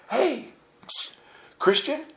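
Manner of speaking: high, hushed-but-urgent beckoning; furtive street seller. Retold or imitated. Splinter seller calling to a Christian tourist, furtive high call. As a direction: beckon a customer on the sly.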